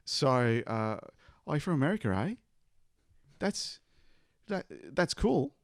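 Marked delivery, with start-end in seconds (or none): 1.5-5.5 put-on Bogan farmer accent. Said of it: "Give us a taste of your Bogan accent".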